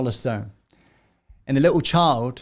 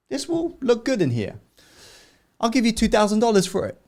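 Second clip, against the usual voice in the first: higher owner voice; 8 semitones higher, faster than usual. Acted. Museum owner makes offer.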